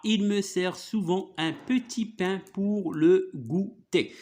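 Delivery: slow dictation-style reading; model reading aloud. Shown as a demonstration. Teacher going back over the story with pupil, slow careful reading. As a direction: read it out slowly, word by word.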